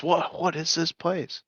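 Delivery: high, scoffing visitor's disbelief; incredulous Texan. Retold or imitated. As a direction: play an unimpressed Texan cousin. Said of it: "the guy goes".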